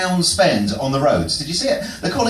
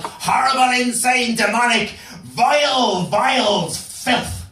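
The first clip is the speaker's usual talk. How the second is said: building dramatic horror; 7 semitones higher, slower than usual. Pretend.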